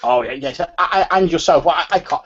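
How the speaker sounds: lightly voiced old man, stammering and rising. Old man marvelling at how youngster has grown, stammering light old-man voice. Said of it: "the voice of an old man".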